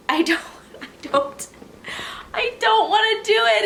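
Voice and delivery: high, loud whiny protest; squealing I don't wanna; whining. Real, not acted. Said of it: "whining refusal".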